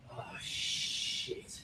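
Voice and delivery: unvoiced hushed dismay; whispered realisation. Man realising mid-argument his script took over, whispered. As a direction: breathe it, suddenly horrified.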